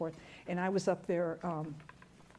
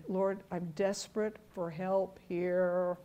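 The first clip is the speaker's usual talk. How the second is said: humble prayer. Acted. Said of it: "How about humility?".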